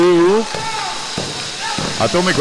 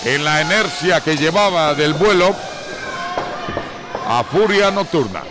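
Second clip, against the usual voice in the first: wrestling commentator. Acted. Live wrestling play-by-play.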